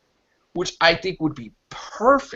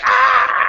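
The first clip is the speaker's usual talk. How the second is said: mock scream; 5 dB louder than usual. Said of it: "he's like".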